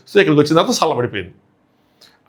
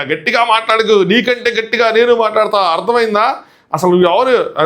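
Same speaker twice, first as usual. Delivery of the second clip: higher, slowed mock angry rebuke; Nataraju master's anger; 4 semitones higher than usual. Retelling the master shouting down Siva, a higher mock angry rebuke. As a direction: act out the master raising his voice at Siva. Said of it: "ఇక పెట్టారు ఆయన గట్టిగా".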